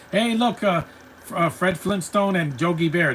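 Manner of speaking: high excited call; spotting something fun, pitch jumps high. Real, not acted. Spotting cameos in cartoon.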